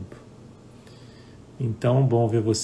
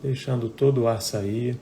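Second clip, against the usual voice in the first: unhurried meditation guidance with long pauses; guided meditation. Real, not acted. Teacher guiding live viewers to close eyes and breathe, guided meditation. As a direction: guide them gently into breathing, phrase by phrase.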